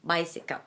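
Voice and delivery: bicycle trailing into a lazy "kuh"; schwa ending. Shown as a demonstration. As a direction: relax the lips on the end of bicycle. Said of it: "pronounced in a schwa manner".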